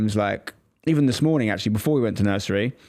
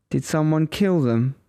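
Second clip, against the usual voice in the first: put-on curious child; 4 semitones higher, slower than usual. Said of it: "my oldest goes up to her and says".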